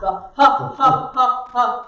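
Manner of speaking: staged "ha, ha" pushed from the belly; demonstrated belly laugh. Shown as a demonstration. Drama teacher shows projection from the stomach, staged belly laugh. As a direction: separate rhythmic ha's from the diaphragm. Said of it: "try out a belly laugh".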